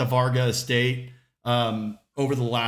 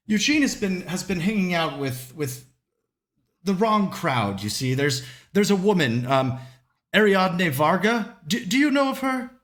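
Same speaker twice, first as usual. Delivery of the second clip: higher, hesitant wife with a sigh; fidgety and nervous; 4 semitones higher than usual. Acted. Worried wife confiding about her son, nervous and higher. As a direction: fret over the son, halting. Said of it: "Grace is kind of fidgety and nervous".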